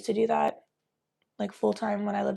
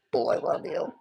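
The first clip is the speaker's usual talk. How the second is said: whispered love; 2 semitones lower than usual. Real, not acted. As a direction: whisper tenderly to the pet.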